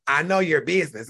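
a hint of a snide rival, drag out I know your business; mocking her rival. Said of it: "so she says".

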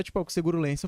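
ordinary delivery

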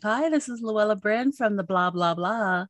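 reporter voice. Retold or imitated. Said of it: "you use your reporter voice".

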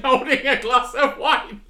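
loud, high, posh and laughing; laughing posh accent. Acted. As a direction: crack up while playing posh. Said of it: "speaking in this accent".

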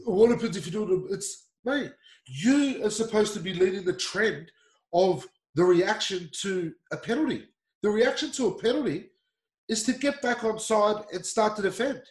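exasperated, insistent telling-off; frustrated. Real, not acted. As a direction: spell it out to a captain who should know better. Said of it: "that's why it's frustrating".

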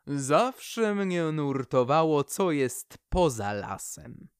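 slow, wistful tree voice, lightly voiced; Poplar's longing. The poplar slowly confides to the owl her longing to see beyond the forest. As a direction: linger on it like a long-held wish.

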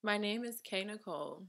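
"K" set out clearly before "Nicole"; stress on K. Shown as a demonstration. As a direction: lean on the "K" in "K Nicole". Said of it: "Emphasis on the K".

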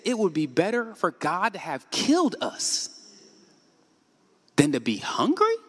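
slow, heavy despairing quote; a hint of a whining crowd; slow mock lament. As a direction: weigh each word of the complaint. Quoting the Israelites' despairing complaint.

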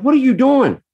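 high-pitched, exasperated parent yell; retold screaming. Dad losing it at his daughter on the bed, retold screaming. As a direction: yell it sharply upward, losing your temper. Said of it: "And I start screaming at her".

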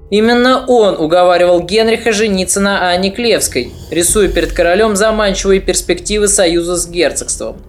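plain reading voice

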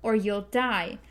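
a gunslinger's grim threat; stern gunslinger warning. Acted. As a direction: warn her coldly, every word weighed. Roland's threat, retaken.

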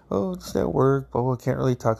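mom on the phone. Retold or imitated. Voices his mom on the phone.

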